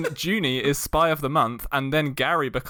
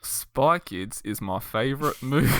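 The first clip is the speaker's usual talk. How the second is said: put-on slow, careful New Zealand accent try; attempted Kiwi accent; 2 semitones lower, slower than usual. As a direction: imitate a Kiwi accent, taking it slowly. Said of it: "in a Kiwi accent".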